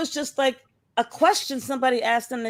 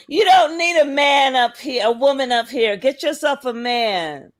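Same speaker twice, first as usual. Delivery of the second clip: raised voice quoting Tessa; retold shout. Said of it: "that bitch Tessa said".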